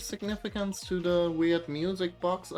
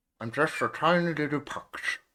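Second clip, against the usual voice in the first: put-on small sneezy dog voice, louder; 2 semitones higher, 4 dB louder than usual. Speaker shows how their dog would talk, voicing their sneezy little dog. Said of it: "he'd be talking like this a little bit".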